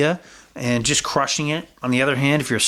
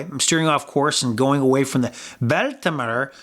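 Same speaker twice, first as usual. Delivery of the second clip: put-on Irish accent. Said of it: "I don't know why I'm doing it in an Irish accent".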